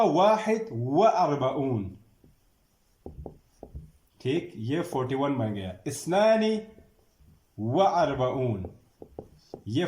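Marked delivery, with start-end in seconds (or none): 0.0-1.9 slow and deliberate; slow teacher model; slow dictation. Shown as a demonstration. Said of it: "آگے آپ خود بناتے جائیں". 5.9-8.6 teacher calling the next number; called out number. Shown as a demonstration. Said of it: "dictating numbers to class".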